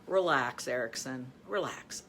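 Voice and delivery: soft, low self-soothing; soft self-command. Shown as a demonstration. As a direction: talk yourself down quietly. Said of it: "is I'll just say".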